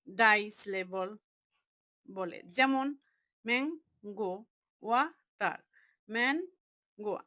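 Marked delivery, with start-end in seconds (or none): 3.5-4.3 ম্যাঙ্গো split into ম্যাং, then গো; teacher's syllable-by-syllable ম্যাঙ্গো; broken into syllables. Shown as a demonstration. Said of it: "ভেঙে ভেঙে অর্থ". 4.8-5.6 ওয়াটার split into ওয়া, then টার; teacher's syllable-by-syllable ওয়াটার; broken into syllables. Shown as a demonstration. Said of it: "ভেঙে ভেঙে অর্থ".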